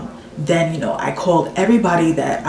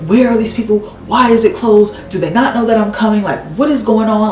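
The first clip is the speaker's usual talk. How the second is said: louder, agitated string of questions; pissed-off panic; 4 semitones higher, 5 dB louder than usual. Retold or imitated. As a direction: retell it exasperated, voice pushed up. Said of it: "I'm panicking and I'm pissed off".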